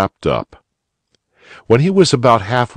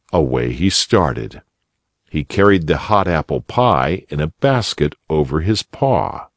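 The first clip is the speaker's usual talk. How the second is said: plain reading voice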